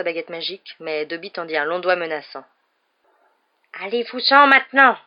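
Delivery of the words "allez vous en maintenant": high, loud, fierce command; fierce little creature shouting orders; ferocious elf. A narrator's reading. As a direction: drive him away ferociously. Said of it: "dit-il d'un ton féroce".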